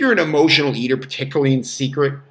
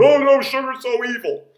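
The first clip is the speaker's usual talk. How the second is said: high mocking whiny zealot voice; 10 semitones higher than usual. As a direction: parody a preachy sugar hater. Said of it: "the white horse zealots".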